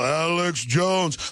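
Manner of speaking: slow dazed droning of the name; a vegged-out TV viewer, mildly mimicked; lightly voiced zombie viewer; zoned-out viewer. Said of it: "they just go".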